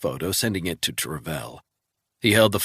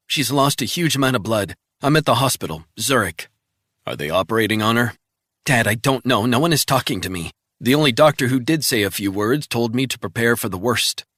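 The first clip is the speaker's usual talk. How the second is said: put-on higher, urgent young voice; anxious daughter; 4 semitones higher, 4 dB louder, faster than usual. Daughter calling Resnick from the hospital, anxious. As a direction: daughter phoning her father in a panic.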